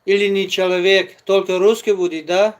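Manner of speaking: loud, challenging retort; angry indignant. Real, not acted. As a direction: push back hard, indignant. Arguing back about Uzbeks.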